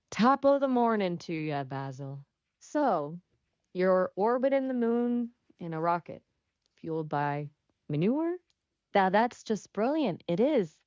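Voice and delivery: stagey Irish accent; lilting mock-Irish accent. Shown as a demonstration. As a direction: put on a caricature Irish brogue. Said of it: "can you do an Irish accent?".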